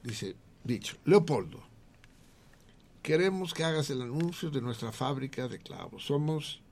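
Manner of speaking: high, loud hammed-up Galician; Gallego voice. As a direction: ham up the Galician with Portuguese falar. Galician character pitching ad.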